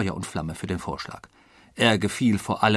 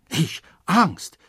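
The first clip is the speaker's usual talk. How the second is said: high, loud, offended cry; indignant; 7 semitones higher, 4 dB louder than usual. A narrator's reading. Passepartout asked by the colonel if he is afraid, indignant. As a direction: throw the word back, affronted. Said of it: "rief Passepartout entrüstet".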